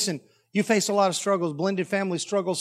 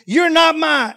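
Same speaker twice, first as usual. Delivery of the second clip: high, loud wail of protest; hammed-up tearful kid yell; crying child; 9 semitones higher, 9 dB louder, slower than usual. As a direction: imitate a bawling little boy's protest. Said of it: "he's already crying".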